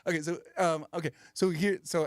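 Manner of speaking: fast, giggly Fallon; Jimmy Fallon impression. Comedian doing Jimmy Fallon, giggling between fast words. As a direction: laugh through it, fast and goofy. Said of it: "Jimmy Fallon's always like".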